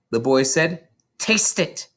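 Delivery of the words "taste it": stern scolding. Acted. Trunchbull scolding.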